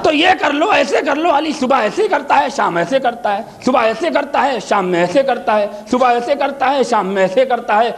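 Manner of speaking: high on صبح, dropping on شام; preaching cadence. Acted. Preacher acting out the animal's habits, sing-song. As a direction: swing the voice up and down morning and evening.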